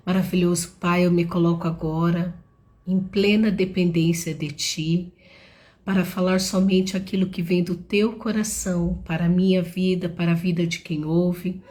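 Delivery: earnest spoken prayer. Acted. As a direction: pray it sincerely, steady. Leads an opening prayer.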